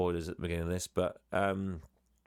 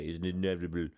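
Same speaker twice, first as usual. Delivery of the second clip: lightly done action-hero voice, a bit lower; a hint of a movie tough guy saying "inevitable" low and deadpan; playful quote of a film star's catchphrase, said lower; Arnie impression; 4 semitones lower than usual. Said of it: "as Arnie would say".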